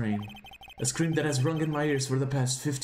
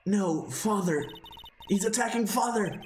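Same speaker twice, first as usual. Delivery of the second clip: frightened cry; 6 semitones higher than usual. Acted. Boy sees father attacked.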